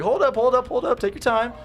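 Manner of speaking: imitating her, high-pitched. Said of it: "She was like".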